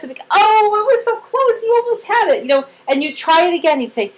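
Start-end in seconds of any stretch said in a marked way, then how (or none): 0.3-2.4 cheering a near miss. Acted. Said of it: "we cheer on the way".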